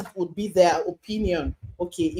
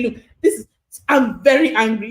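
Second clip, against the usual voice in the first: demo anger; 6 dB louder than usual. Shown as a demonstration. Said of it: "to say".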